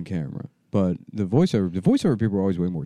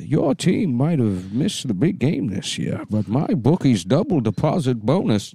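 slow, epic voiceover read; dramatic trailer voice; 4 semitones higher than usual. Shown as a demonstration. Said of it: "You could just do stuff like that".

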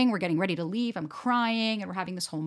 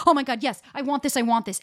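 mock gushing eagerness; 4 semitones higher than usual. Imitating an overeager dater rushing into romance, excited. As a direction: gush it out, imitating someone who wants it badly. People coming in really hot.

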